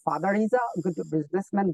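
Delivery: father is a good businessman spoken very slowly; slow example. Shown as a demonstration. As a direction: read the model sentence slowly for students. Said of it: "For example".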